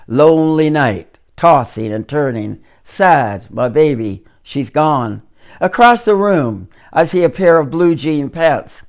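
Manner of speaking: measured, rhythmic poem recital; poetry reading. Acted. Poet reciting to the audience in a spoken-word poetry voice. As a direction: read it like a spoken-word performance.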